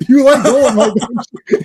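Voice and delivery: high, loud mock challenge; pissed off. Movie character challenging a guy about Dolomite, angry. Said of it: "he got super pissed off".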